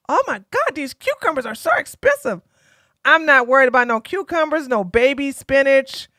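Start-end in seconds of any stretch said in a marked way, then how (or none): 0.1-2.4 mock whiny shopper. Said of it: "is like".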